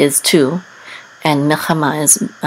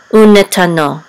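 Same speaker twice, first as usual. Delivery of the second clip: final "no" of "U ne ta no" stressed; 5 dB louder than usual. Shown as a demonstration. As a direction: land on the last syllable, "no". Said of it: "accent will be on the last syllable".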